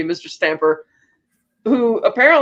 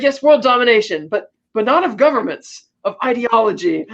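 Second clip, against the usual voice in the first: lightly voiced, higher-pitched megalomaniac; egomaniacal villain speech; 4 semitones higher than usual. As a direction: proclaim it like a hammed-up villain. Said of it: "give this ridiculous egomaniacal speech".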